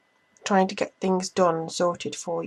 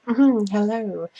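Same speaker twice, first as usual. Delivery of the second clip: smooth charmer; slower than usual. Retold or imitated. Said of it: "who's a very charming man".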